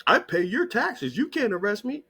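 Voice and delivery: lightly mocking impression of an entitled taxpayer; mock protester. Mocking a sovereign-citizen type.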